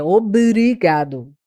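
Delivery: OBRIGADO slowly, with both B and R sounded; B e R pronunciados. Shown as a demonstration. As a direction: draw out the "bri" in OBRIGADO so both consonants are heard. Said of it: "Eu pronuncio o B e o R". (OBRIGADO devagar, marcando o B e o R)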